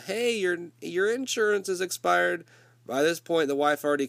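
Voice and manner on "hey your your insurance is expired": a higher, lightly voiced nurse; imitating the nurse. Nurse tells the wife the insurance expired, higher mock voice. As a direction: chirp it like an uncaring nurse. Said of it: "The nurse comes out, says".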